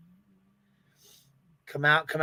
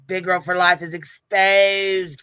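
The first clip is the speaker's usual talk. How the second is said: mock British accent; 3 semitones higher, 4 dB louder, slower than usual. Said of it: "get crumpets and tea".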